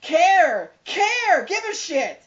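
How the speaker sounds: high, loud, hammed-up outrage; outraged yelling. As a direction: yell at the careless dad in disbelief. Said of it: "I'm like".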